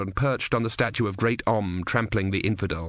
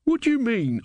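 put-on old man retort; 12 semitones higher than usual. A narrator's reading. Character in story reading.

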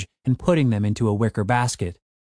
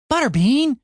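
sharp raised call of the name; snapped; 13 semitones higher, 3 dB louder than usual. A narrator's reading. Tim snapping at his barking wolf, sharp call. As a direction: snap the dog's name to stop him. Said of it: "Tim snapped".

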